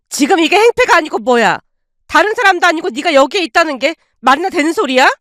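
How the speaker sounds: high, fast indignant yell; aunt berating her freeloading brother, shouting; furious aunt. Acted. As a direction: berate him without pause.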